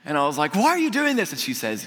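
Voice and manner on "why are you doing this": high-pitched disbelief; retold bewildered question. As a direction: act out being baffled by special treatment.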